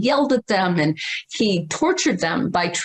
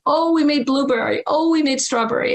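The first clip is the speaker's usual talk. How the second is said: higher, eager cheer over the new flavor; excited townsfolk; 6 semitones higher than usual. Retold or imitated. Townspeople excitedly spreading news of fresh ice cream. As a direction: announce it like thrilled neighbors. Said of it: "everybody would get excited and say".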